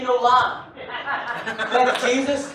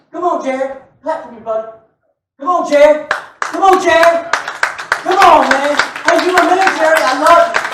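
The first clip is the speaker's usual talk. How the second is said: calling out to Jared; 5 dB louder than usual. Real, not acted. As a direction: cheer him on from the pulpit.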